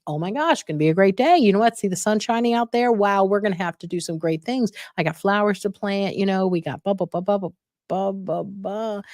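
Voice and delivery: bury them in cheerful words, fading out; overly chatty. Retold or imitated. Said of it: "I can talk them into a little frenzy".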